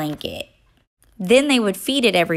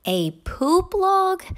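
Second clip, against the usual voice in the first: higher, slow puzzled question; not understanding; 10 semitones higher, slower than usual. A narrator's reading. Child asks Mama again, higher and puzzled. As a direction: ask it again, still baffled. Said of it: "really not understanding".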